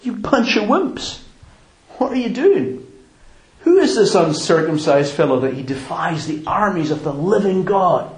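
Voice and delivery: David scolding the cowering army, mock outrage; outraged David. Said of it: "And he's outraged".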